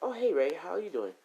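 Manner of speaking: high-pitched hello back; friendly greeting. Acted. Midnight answering Ray's hello, high friendly greeting.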